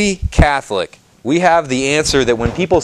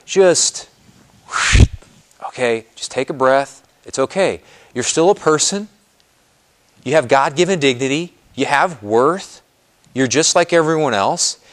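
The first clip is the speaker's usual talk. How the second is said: gentle reassurance. Pretend. Calming a struggling person.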